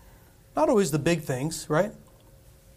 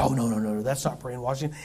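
a hint of a lower, dismissive scoffer; mocking worldly voice; 5 semitones lower, 3 dB quieter than usual. Preacher mocks the world's denial, lightly voiced scoffing. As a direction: brush it off like a know-it-all. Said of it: "You say".

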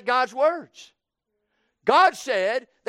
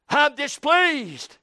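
slow, drawn-out, higher pouting complaint; stubborn protest; 5 semitones higher, 4 dB louder, much slower than usual. Acted. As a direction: drag it out like a sulking child. Jonah protesting to God.

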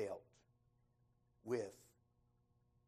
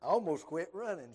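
excited; 6 semitones higher, 9 dB louder than usual. Real, not acted. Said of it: "started shouting".

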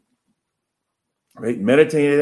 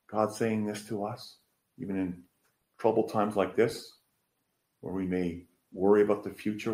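soft reflection; 7 dB quieter than usual. Real, not acted. Softening after the climax.

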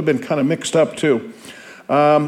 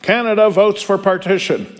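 firm delegate; 4 semitones higher than usual. Acted. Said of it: "spoke firmly".

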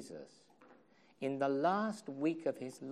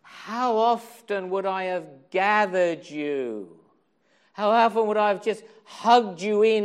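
weeping lament; 6 semitones higher, 10 dB louder than usual. Acted. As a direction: plead like a grieving father. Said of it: "in his weeping he said".

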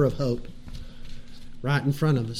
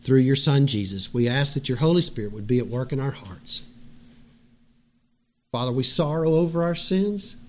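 pastoral prayer; 2 semitones lower than usual. Acted. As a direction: pray humbly for the congregation. Pastor leads closing prayer.

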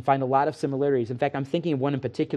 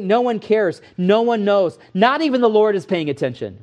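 self-pity; 6 semitones higher, 6 dB louder than usual. Retold or imitated. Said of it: "we'll tell ourselves".

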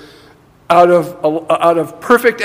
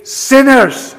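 put-on slow "sinners" in a Scottish accent; 6 semitones higher, 3 dB louder than usual. Preacher echoing a remembered Scottish theologian, Scottish accent. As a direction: borrow a Scottish preacher's accent for one word. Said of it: "say it with a Scottish accent".

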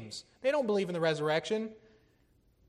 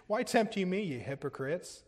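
quicker retold rebuke, starting up and dropping at the end; mild retold rebuke. Preacher repeating Jesus' words to religious fakers, mildly rebuking. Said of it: "he spoke like that to religious fakers".

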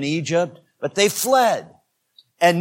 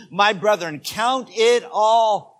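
drawn out, rising to a shout; slow shouted buildup; 3 semitones higher, slower than usual. Shown as a demonstration. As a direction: stretch it then shout count it all. Rereading verse with emphasis.

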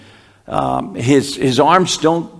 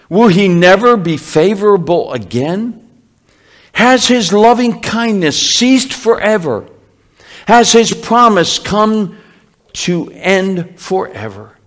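scripture reading. Acted. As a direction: read it like a lament poured out to God. Pastor reads the psalm aloud.

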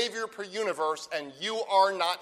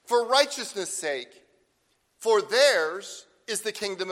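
scripture reading; 3 dB louder than usual. Acted. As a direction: read the verses out with weight. Reads the Beatitudes aloud.

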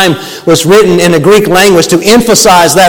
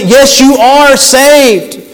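reassuring Paul; 4 semitones higher than usual. Retold or imitated. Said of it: "reminding them once again".

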